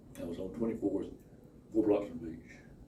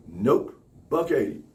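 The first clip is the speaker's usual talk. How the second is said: curt refusal; 3 semitones higher, 4 dB louder, slower than usual. Acted. Acted clerk refusing a discount.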